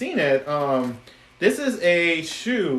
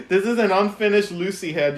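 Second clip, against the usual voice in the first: laughing; 3 semitones higher than usual. Real, not acted. Laughing repeat.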